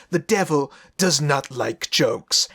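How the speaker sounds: low, slow bad Italian accent; hammed-up Italian accent, slow and deep; Russell Crowe's Italian accent. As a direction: do a terrible mock-Italian accent, low and measured. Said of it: "exact impersonation of Russell Crowe's Italian accent".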